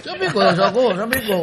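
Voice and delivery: talking through laughter; laughing. Real, not acted. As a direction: still laughing as he speaks. Laughing while retelling.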